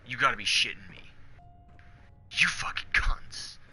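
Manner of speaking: a gamer losing it over a mobile-only release; mock outrage. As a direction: blow up at the screen, half joking. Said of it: "'cause I'm like".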